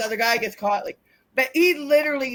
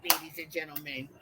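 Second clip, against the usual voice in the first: mock announcer; 8 semitones lower, 11 dB quieter than usual. Wrestler mimics her own introduction, mock announcer. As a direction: lightly imitate an announcer, dropping low and soft.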